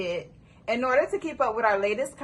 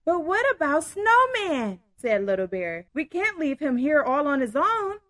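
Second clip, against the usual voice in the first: story narration. A narrator's reading. Reads story aloud.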